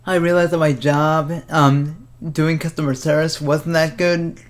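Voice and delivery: holding back hiccups while talking; suppressing hiccups. Real, not acted. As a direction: speak through the hiccups, lightly. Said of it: "Sorry, I have the hiccups today".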